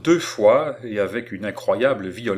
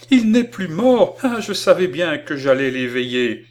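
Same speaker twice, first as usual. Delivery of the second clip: put-on high, loud burst of childlike elation; overjoyed cry; 7 semitones higher, 7 dB louder than usual. A narrator's reading. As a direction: shout it out, mad with joy. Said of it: "cria-t-elle, folle qualité de joie". (cri de joie éclatant et aigu)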